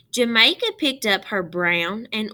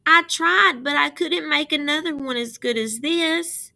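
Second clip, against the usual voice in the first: upset lament; 8 semitones higher, 5 dB louder than usual. A narrator's reading. Jamaica upset to her father.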